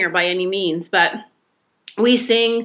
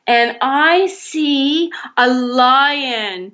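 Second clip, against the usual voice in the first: mock fright; 4 semitones higher, much slower than usual. Pretend fear of a lion.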